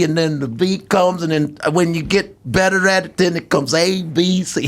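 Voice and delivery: lightly voiced Cosby explaining; Cosby as the old mentor; Cosby impression. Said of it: "He goes".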